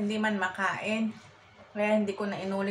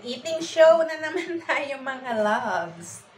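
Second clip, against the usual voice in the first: excited greeting; 5 semitones higher, 6 dB louder, much slower than usual. Real, not acted. Excited eating-show greeting.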